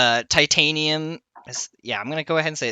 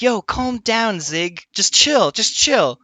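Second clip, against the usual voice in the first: lightly voiced higher coworker soothing; coworkers calming him; 9 semitones higher, slower than usual. Coworkers telling the angry smith to chill, lightly higher. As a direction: talk a hothead down, a touch higher. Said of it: "stopped what they're doing and being like".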